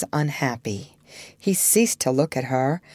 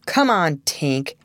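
sneering; slower than usual. Acted. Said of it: "with a frightful sneer".

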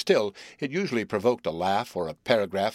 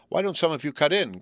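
resentful cry; 6 semitones higher than usual. A narrator's reading. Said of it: "cried Otis resentfully".

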